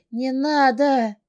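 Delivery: high, loud, slow don't; desperate scream. Acted. Heroine begs the captor to stop, screaming. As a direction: drag the plea out in terror.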